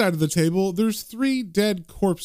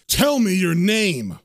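slow, slightly raised command; mildly shouted order; forceful demand; 2 semitones higher, slower than usual. Acted. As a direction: demand it, stretching each word. Magician demands demon's name.

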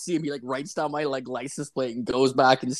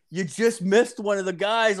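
pitched-up voice, retelling a joking tip-off; teasing call-out; 7 semitones higher than usual. Retold or imitated. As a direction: call over to someone in a high, joking voice. Teasing guard from car window.

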